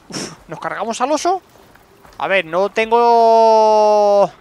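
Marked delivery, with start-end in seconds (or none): 2.2-4.3 drawn-out stall. Real, not acted. Stalling while checking inventory.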